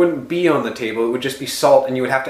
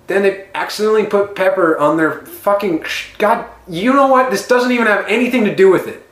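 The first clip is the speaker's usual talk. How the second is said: exasperated; 5 semitones higher than usual. Real, not acted. Heated argument over blind people.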